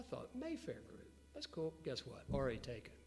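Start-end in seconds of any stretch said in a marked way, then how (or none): 0.4-1.7 put-on light posh London Mayfair accent, pitched higher; a quick, hammed-up posh Mayfair lilt. Pitching his company name to business partners in a mock posh Mayfair accent. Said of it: "a very posh Mayfair accent".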